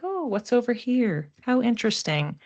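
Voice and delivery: light, lifted voice of idle wonder; a hint of a dreamy, curious stroller; curious wanderer. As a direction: voice the woman on the card, gently curious. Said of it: "She's like".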